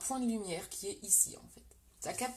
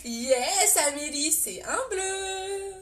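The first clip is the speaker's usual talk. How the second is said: excited reveal; 8 semitones higher, 6 dB louder, much slower than usual. Real, not acted. Reveals the surprise shade to viewers.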